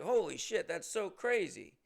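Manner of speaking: loud, high burst of disbelief, slowing at the end; amazed. Retold or imitated. Comic retelling a fan couple spotting him, amazed. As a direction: replay the shock of being recognized.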